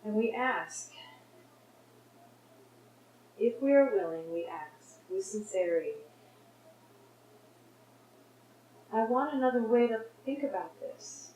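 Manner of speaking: hushed, sincere plea that settles into thanks; meditative prayer. Real, not acted. Models a prayer within the meditation.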